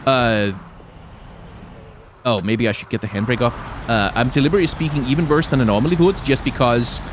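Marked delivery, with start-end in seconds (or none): 4.1-6.2 exaggerated Danish accent, quicker, W's turned to V's; deliberately bad Danish-accented English; comedy Danish accent. Shown as a demonstration. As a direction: put on a worse Danish accent. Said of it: "I'm putting on a comedy accent".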